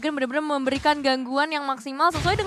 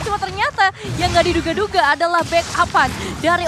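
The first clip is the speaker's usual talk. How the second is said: fighting game announcer; 3 semitones higher, 4 dB louder than usual. Real, not acted. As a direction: ride the hype of the play. Co-caster hyping triple kill.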